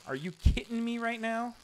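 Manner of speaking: high-pitched mock catchphrase; imitating Kiko. Streamer copying Kiko's catchphrase, high mock outrage. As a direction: parrot the other streamer's line. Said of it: "I'm starting to say things that Kiko says".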